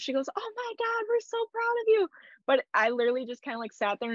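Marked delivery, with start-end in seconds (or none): 0.4-2.1 retold excited scream. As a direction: imitate a neighbor shrieking with delight. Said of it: "like, screamed".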